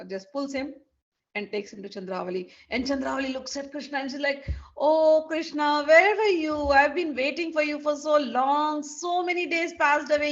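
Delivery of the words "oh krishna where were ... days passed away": drawn-out, louder longing cry; mock lovesick plea, stretched out. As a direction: pour your heart out to him. Chandravali pouring out her heart.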